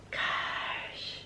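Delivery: a soft breathed whisper; just breathe the word; whispered gosh. Real, not acted. Vlogger struck by how grown up everyone is, in a whisper. Looking at childhood photos.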